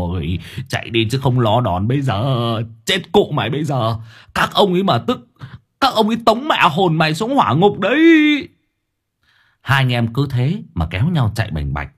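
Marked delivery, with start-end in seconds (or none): 0.1-8.0 rising, hurried warning to run; urgent warning. Acted. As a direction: hurry him, scare him along. Old man urging friend to flee.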